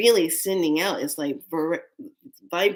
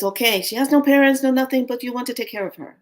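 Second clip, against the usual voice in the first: serious papa; 6 semitones higher, 4 dB louder, faster than usual. Retold or imitated. Papa pressing the adoption question.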